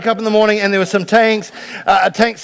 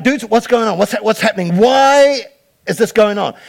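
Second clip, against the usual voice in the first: casual dude king; 3 semitones higher than usual. Retold or imitated. King asking his executives, casual dude voice. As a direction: toss it off like a surfer boss. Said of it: "I'm getting the Adam International version".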